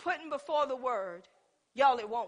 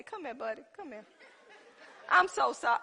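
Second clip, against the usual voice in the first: tender coaxing. Retold or imitated. Soothing a hurt dog.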